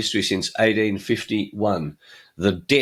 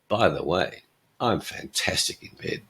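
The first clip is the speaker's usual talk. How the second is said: lower, softer, sinking to near whisper; mock seductive aside; 4 semitones lower, 5 dB quieter than usual. Woman brushing past a man at a party, mock seductive aside. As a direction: drop it in discreetly, acted flirting.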